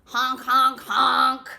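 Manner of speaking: loud goose honking; goose honks. Acted. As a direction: honk like a goose.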